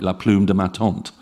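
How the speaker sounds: la plume de ma tante with English U and no nasal vowel; anglicized French, plume said like plume in English; English speaker's French. Shown as a demonstration. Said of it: "most English speakers would say something like".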